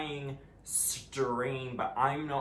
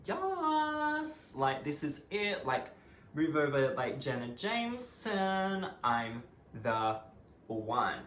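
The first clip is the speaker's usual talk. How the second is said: smug excitement; 2 semitones higher, slower than usual. Retold or imitated. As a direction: crow it like you've just won the prize. Gloating quote of her past self.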